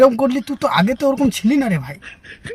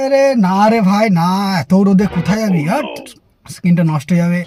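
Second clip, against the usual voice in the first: mocking friend afraid the sun darkens skin; vain snob. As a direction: fret over a tan. Snob fussing about his skin.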